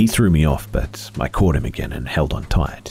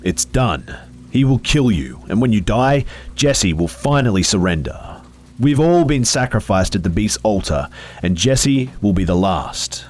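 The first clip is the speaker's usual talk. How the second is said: doom-laden phantom; 6 semitones higher than usual. Acted. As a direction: pronounce the end with grim finality. Phantom foretells death.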